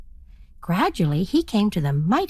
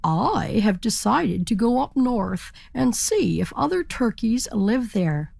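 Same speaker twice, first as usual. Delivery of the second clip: proud turkey; 2 semitones higher than usual. Acted. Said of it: "he said to the other turkeys".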